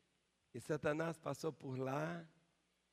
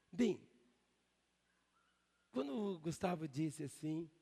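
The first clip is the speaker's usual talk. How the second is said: normal talking voice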